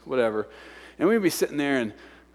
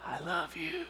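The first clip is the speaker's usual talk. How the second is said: very soft, high, loving whisper; imitating a wife's intimate whisper; tender whisper; 12 semitones higher, 15 dB quieter than usual. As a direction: whisper it sweetly into an ear. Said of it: "come up and whisper in my ear".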